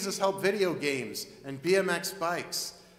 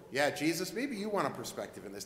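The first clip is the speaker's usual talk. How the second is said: offhand; 5 semitones lower, 4 dB quieter than usual. Retold or imitated. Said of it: "knock on the door and go".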